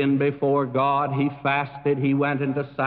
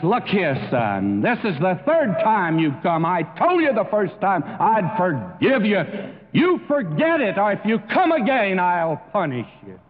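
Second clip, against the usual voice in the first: stern father; 4 semitones higher than usual. Retold or imitated. Father scolds repeating boy.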